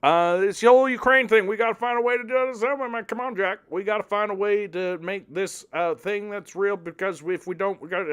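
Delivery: put-on high, halting old-man stammer; stammering Biden. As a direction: fumble through the call like a flustered old president. Biden on the phone.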